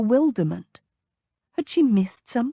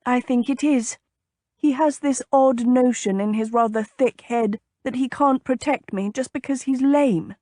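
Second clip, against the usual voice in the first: slightly higher lady, mildly put out; lightly voiced indignant lady; 4 semitones higher than usual. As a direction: complain like a miffed young lady.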